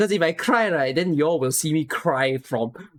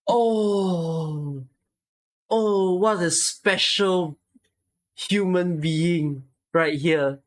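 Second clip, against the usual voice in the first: slow, near tears, emotional; a real catch of crying in the voice; choked up; much slower than usual. Real, not acted. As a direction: fight back tears as you speak. Choked up at a name.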